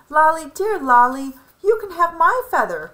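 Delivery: lightly voiced cry. A narrator's reading. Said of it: "cried Hen".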